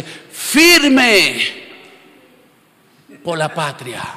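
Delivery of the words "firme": wife copying the cheer. Retold or imitated. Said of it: "Entra a la sala y dice".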